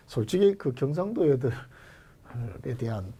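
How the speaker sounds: normal talking voice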